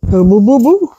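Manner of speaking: playful boo-boo imitation, rising at the end; imitating animal's Yogi Bear sound. Owner echoing the animal's noise, playful imitation. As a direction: echo the animal's cartoonish call. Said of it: "Sounds like Yogi Bear".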